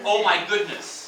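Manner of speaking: slow, deliberate exclamation; model phrase. Shown as a demonstration. Teacher leading the class in repeating, slowly. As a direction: give each word time for repeating.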